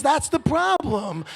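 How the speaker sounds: wife's retort. Retold or imitated. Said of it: "She goes".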